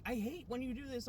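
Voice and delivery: high-pitched mock complaint; exasperated high-voiced retelling; imitated fed-up partner.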